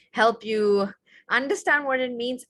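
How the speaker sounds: unvoiced whisper. Shown as a demonstration. Teacher keeps whispering to show what aghast means. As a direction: breathe it out in awe. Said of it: "the way I'm saying it".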